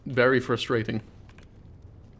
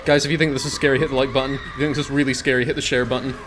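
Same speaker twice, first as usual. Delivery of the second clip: YouTuber plug voice; faster than usual. Pretend. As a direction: sell it like a YouTuber. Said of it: "every other YouTuber".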